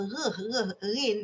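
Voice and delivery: "reh, reh, rin" with the r rolled at the back of the throat; Kedah uvular r. Shown as a demonstration. Lecturer showing students the Kedah uvular r. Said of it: "dia tak kata bunyi".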